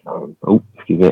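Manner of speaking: usual speaking voice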